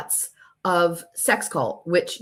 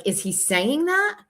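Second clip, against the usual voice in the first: incredulous question; 8 semitones higher, slower than usual. Retold or imitated. Stunned reply to friend's texts.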